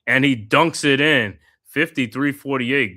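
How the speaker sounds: announcer thrilled by the putback dunk; excited dunk call. Acted. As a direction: lift it up for the dunk. Calling a dunk, play-by-play.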